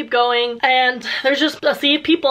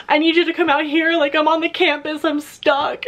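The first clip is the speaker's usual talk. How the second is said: panicked plea; 6 semitones higher than usual. Retold or imitated. Panicked call to her friend.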